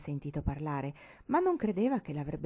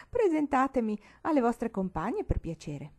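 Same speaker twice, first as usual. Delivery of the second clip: put-on cackling old granny, higher; old woman's cackle; 7 semitones higher, 4 dB louder than usual. A narrator's reading. Old Nonna Fin cackling at her visitors, higher. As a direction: cackle then demand introductions.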